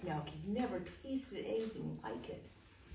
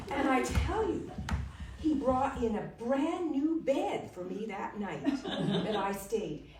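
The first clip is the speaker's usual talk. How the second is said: louder, higher, laughing through the praise; laughing boast; 4 semitones higher, 10 dB louder than usual. Acted. Young man boasting to the Duke, louder and laughing. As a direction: gush with laughter over the castle.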